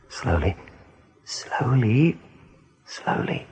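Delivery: unvoiced, careful whisper; hushed slowly, slowly; whispered caution. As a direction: breathe it out so nothing jars him. Easing Hazel out of culvert.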